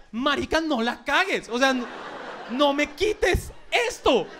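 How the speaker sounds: slow, drawn-out plea not to mess up; pleading warning. Acted. Someone begging not to lose this, slow pleading. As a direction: beg them slowly, stretching the last words. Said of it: "como diciéndome".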